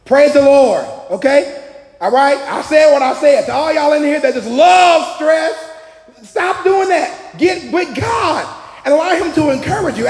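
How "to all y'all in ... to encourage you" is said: preaching shout. Real, not acted. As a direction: lay it on them hard. Preacher scolding stress lovers.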